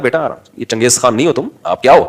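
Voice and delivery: gentle parent hushing a shouting son; calm gentle correction. Shown as a demonstration. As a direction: settle the child down softly. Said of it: "آرام سے، تمیز سے".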